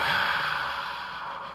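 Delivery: long breathy exhale through the mouth. Shown as a demonstration. Teacher leads class breathing out through the mouth. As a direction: breathe it all out. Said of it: "Exhale through the mouth".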